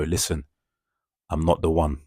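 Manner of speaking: calm tone that means business; calm warning. Acted. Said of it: "in a calm tone".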